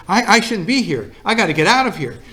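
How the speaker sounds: a woman desperate to leave, acted lightly; frantic. Wife telling her bridge friends she must go, mock frantic. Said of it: "And she got frantic".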